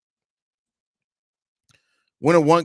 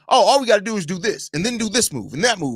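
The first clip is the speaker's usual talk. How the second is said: mocking fans; 5 semitones higher than usual. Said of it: "When people start getting to".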